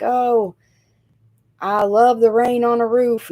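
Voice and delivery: gushing imitation. Imitating everybody who loves rain on a roof, mildly gushing. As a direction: gush it a little, imitating everybody else. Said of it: "Everybody's like".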